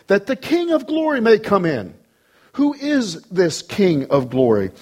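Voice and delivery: rising, stately recitation; proclaimed psalm. Acted. Repeats psalm aloud.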